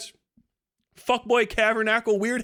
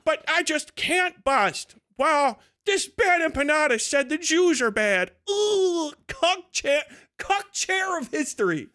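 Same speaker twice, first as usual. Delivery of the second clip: higher, lightly whiny mimicry; mock whining; 5 semitones higher than usual. Ranter imitating foreigners watching helplessly, mock whining. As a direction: mockingly voice a helpless onlooker. Mocking frustrated online onlookers.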